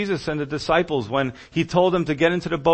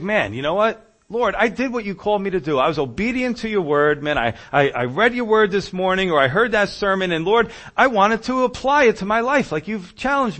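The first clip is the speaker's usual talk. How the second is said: higher, aggrieved protest; acted complaint to God; 4 semitones higher, 4 dB louder than usual. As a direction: protest to God as a hurt believer. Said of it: "shake our fist at God".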